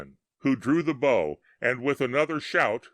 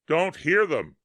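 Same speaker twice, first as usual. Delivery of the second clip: higher and louder reply; yelled back; 6 semitones higher, 4 dB louder than usual. A narrator's reading. Tom yelling back to Bill over the battle, loud. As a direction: yell it back over the noise. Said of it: "Tom yelled back".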